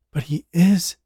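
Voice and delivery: high firm insistence; mildly insistent woman; insisting. A narrator's reading. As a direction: press the point. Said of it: "Jessica insisted".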